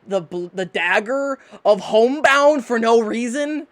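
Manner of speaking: loud, indignant hillbilly tirade; angry old hillbilly. Acted. Knife wife berating her husband, angry hillbilly yelling. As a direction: chew him out as the wronged knife spirit. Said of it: "It's like a fucking old hip Billy".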